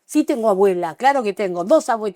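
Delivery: mildly exasperated retort, punched at the start; retold exasperation. Retelling her answer to Guti about having grandmothers, exasperated. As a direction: answer back as if fed up with being asked.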